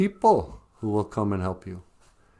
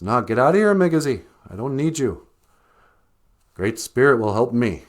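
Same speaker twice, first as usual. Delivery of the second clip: stubborn rabbit; 3 semitones higher, 4 dB louder than usual. Acted. Rabbit shoos eagle.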